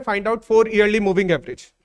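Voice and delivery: very slow, word by word; teacher dictating homework; slow dictation. Shown as a demonstration. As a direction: dictate each word for copying. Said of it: "मैं question लिखवा देता हूं".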